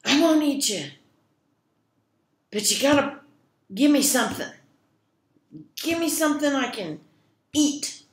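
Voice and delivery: loud troll striking a bargain. Acted. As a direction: grudgingly demand something to eat. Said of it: "And the troll says".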